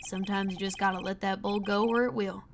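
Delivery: easygoing cowboy cop; lightly voiced cowboy. Cowboy detective chatting with the defence lawyer, lightly voiced.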